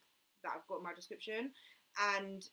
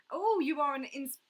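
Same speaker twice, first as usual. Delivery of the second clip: accidental French; 6 semitones higher, 9 dB louder than usual. Real, not acted. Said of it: "that sounded French".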